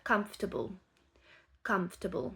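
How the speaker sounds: "Comfortable" in three syllables, kumftable; English comfortable. Shown as a demonstration. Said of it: "dur à dire".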